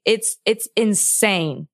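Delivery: slow and softening, voice about to break; close to tears. Real, not acted. Telling her cohost she is nearly crying, tearful. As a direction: let it sink as tears come. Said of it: "I am about to cry".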